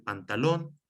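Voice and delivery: pantaLÓN, final O stressed and lifted; stress on final syllable. Shown as a demonstration. Teacher giving an example of agudas, stressed rising end on "pantalón". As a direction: lean on the last syllable of "pantalón". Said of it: "le pongo el acento en la O".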